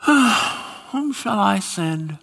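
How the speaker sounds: slow, pondering voice of God; musing God. Retold or imitated. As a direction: wonder aloud, trailing to a whisper. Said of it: "here's God sitting on his throne".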